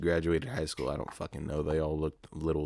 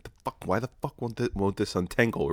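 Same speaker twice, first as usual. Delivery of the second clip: mock frustrated outburst; 4 semitones higher than usual. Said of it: "I was getting a little mad".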